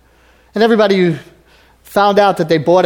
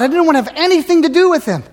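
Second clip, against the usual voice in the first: mock defiant self; 9 semitones higher, 4 dB louder, faster than usual. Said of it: "somebody who rejected God".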